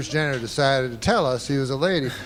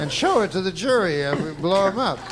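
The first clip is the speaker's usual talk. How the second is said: lightly voiced eager defense, higher; mock defense argument; 4 semitones higher than usual. Comic finishing the defense's plan, mock protest. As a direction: carry on the raised mock argument.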